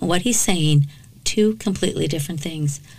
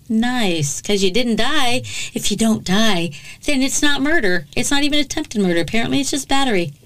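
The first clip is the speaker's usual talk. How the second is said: higher-pitched indignant sarcasm, speeding up; mock the absurd legal logic; sarcastic; 5 semitones higher than usual. Real, not acted. Mocking the reduced charges.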